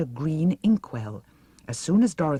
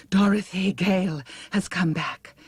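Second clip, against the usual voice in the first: breathless; 4 semitones higher than usual. Acted. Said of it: "she announced breathlessly".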